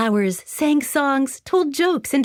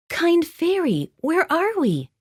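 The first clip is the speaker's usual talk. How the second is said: Dorothy's voice; 8 semitones higher than usual. Acted.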